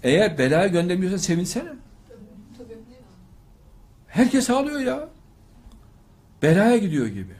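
high, loud, pleading rebuke; fiery preacher pleading against sending daughters away; preaching at full force. Acted. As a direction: scold the parents with rising passion. Impassioned rebuke to parents.

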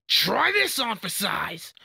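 high, drawn-out battle taunt; attacking taunt. Acted. Fighter taunting an opponent mid-attack, high drawn-out battle call. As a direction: hurl it slowly at the foe on a high pitch.

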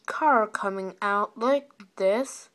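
booming slow security voice; loud, slow announcement voice; deep voice. Shown as a demonstration. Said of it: "If you hear a deep voice like".

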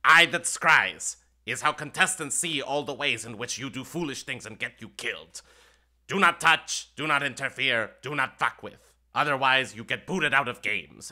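loud, bossy imp warning. Acted. Imp warning the players about the orb, bossy. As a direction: lay down the law. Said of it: "point it out and go".

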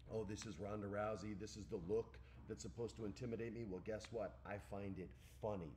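understated, unfazed put-down; mock unimpressed taunt. Wrestler scorning her rival in a stare down, low and understated.

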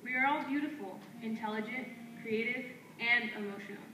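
firm, declaiming poetry lines traded back and forth; spoken word duet. Acted. Two poets trading lines on stage, in a firm declaiming delivery. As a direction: answer your partner line by line like a chant.

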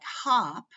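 "hop" said with a short O, as in "lot". Shown as a demonstration. Teacher showing learners a vowel contrast, "hop" with short O. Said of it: "short O".

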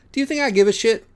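defiant outburst. Acted. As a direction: throw the question back in their faces.

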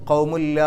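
ഖൗമുല്ല with the n fully merged into a doubled l; ഖൗമുല്ല as qaumu plus a doubled l; merged without nasal. Shown as a demonstration. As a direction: say ഖൗമുല്ല, no hum on the n. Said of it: "ഷദ്ദുള്ള ലാമും പറയാം".

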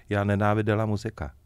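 flat, dry mock of the waitress's curt reply; dry deadpan. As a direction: deliver it bone-dry, no warmth. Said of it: "ona mu řekla úplně suše".

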